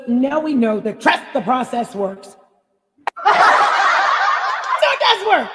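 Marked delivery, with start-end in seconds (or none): 3.1-4.7 high breathy burst of laughter. Real, not acted. Laughs at her own point. 4.8-5.5 said through laughter, much higher and louder; laughing. Real, not acted. Still laughing from the joke.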